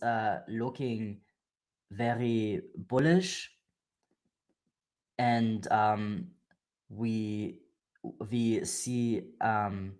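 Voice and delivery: put-on a slow, halting German accent on English; imitating a German trader's accent on the charts, slowly; mock German accent. Streamer imitates German friends reading charts, in a hammed-up German accent. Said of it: "Let, let me try if I can do it, like, simulate it".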